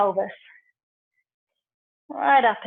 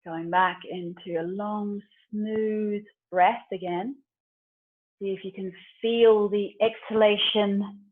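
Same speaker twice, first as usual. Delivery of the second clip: calming breath guidance; 4 dB quieter than usual. Real, not acted. Guides calm breathing in yoga.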